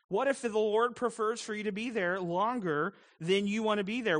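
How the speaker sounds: preacher pressing the point harder. Acted. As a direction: push it out to the room with force. Same question asked again, stronger.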